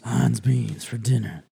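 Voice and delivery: slow, hammed-up British accent; mock British accent. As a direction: draw it out like fake British. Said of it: "watching us do our impressions".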